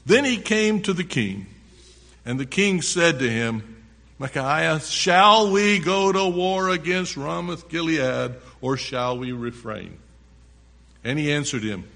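emphatic, projected Bible reading; preacher reading scripture to the congregation. A narrator's reading. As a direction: read it out loud, punching key words. Reads scripture aloud, forcefully.

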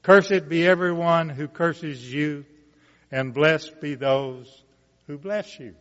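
measured, rising Bible reading voice; scripture reading. Acted. Preacher reading Genesis aloud to the congregation, solemn and building. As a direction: read the blessing to the congregation, building.

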